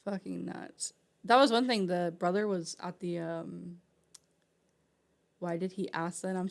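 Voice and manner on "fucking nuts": breathless whispered disbelief; whispered aside. Real, not acted. Reacting alone to the story, a whispered aside. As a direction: breathe it out under your breath. Muttered reaction after pause.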